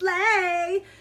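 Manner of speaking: mock gushing fan voice, high and loud.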